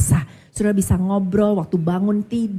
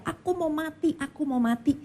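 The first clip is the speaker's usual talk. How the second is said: retold crying; 7 semitones higher, 5 dB quieter than usual. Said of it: "dia dengar suaminya nangis-nangis, teriak-teriak".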